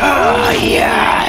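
high, loud whoop of triumph; victory shout. Real, not acted. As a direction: yell out the win. Celebrating the win.

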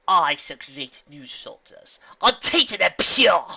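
slow, loud villain proclaiming; evil announcement. Acted. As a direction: announce it like a dark queen. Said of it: "The Dark Alicorn announced".

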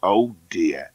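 low, regretful man's voice; mock sympathy. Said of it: "the man said, shaking his head".

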